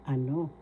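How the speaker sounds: "Ano" with the accent on no; stress on second syllable. Shown as a demonstration. Teacher explains the accent to learners, stressed final syllable. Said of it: "The second syllable has the accent".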